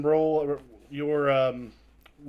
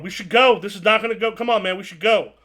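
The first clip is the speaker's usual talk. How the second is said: nervous urging; 5 semitones higher, 5 dB louder than usual. Acted. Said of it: "the guy at the door is going".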